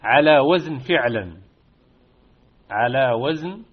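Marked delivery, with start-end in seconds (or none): 0.0-1.4 على وزن فعلا louder and slow; pattern emphasized. Shown as a demonstration. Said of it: "وهذه الكلمات". (إبراز وزن فعلا)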